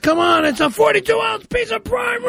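yelling. Acted. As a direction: bellow it in frustration. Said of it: "Why are you yelling at me".

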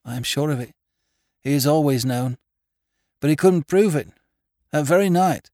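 high, loud, intense country woman; high-pitched, distressed rustic woman; agitated farmer's wife. A narrator's reading. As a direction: press the accusation urgently. Farmer's wife tells of her husband.

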